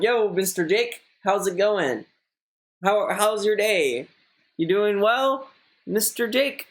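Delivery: awkward small talk. Pretend. Speaker imagining chatting to Jake Paul, mock awkward small talk. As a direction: pretend to make stilted small talk, voice lifted. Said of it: "I don't know what to fucking say".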